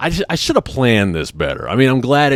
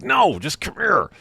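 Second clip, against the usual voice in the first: high, slow, pleading beckon; high urgent hush; 12 semitones higher, slower than usual. Retold or imitated. Calling the waiter over from behind a fern, high and pleading.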